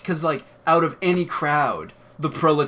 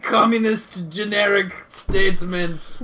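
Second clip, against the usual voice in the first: high, loud superhero voice; hammy superhero voice; 5 semitones higher, 4 dB louder, slower than usual. Pretend. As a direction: play a cartoon superhero. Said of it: "I'd be like".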